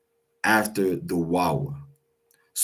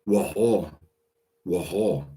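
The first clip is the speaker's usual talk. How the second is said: staccato. Shown as a demonstration. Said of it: "but it's gonna be fast".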